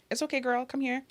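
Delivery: soft, acted-out comforting words; quiet mock-consoling reassurance. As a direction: gently coax a crying friend over. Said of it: "I was always just the consoler".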